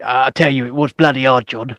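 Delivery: lightly voiced impostor, low; mock confession in a low assumed voice; put-on Vaughan voice. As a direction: keep up the put-on voice, pitched low. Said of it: "putting on that bloody voice".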